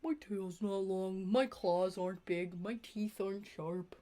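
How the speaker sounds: slow mopey little dog; sad puppy voice. Acted. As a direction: whimper like an insecure puppy. Voicing the insecure dog.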